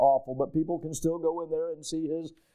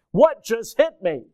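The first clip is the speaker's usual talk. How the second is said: stunned; 6 semitones higher, 7 dB louder than usual. Retold or imitated. Child stunned by punishment.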